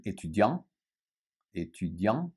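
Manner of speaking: étudiant ending on the nasal vowel; étudiant with a silent final t. Shown as a demonstration. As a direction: drop the T in étudiant. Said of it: "no T".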